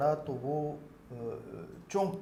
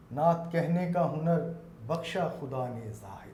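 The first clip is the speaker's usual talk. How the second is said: naat recitation. Acted. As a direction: recite each word with weight. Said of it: "میرا ایک مطلع بھی ہے".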